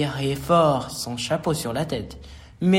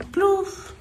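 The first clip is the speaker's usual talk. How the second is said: higher-pitched playful plop; splash noise. A narrator's reading. Narrator as the frog lands in water, splashing sound. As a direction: pop it out like a splash.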